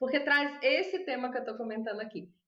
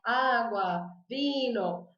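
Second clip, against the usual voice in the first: slow, simple Spanish describing the word; Spanish explaining; slower than usual. Pretend. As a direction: explain in careful Spanish to a waiter. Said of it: "você fala assim".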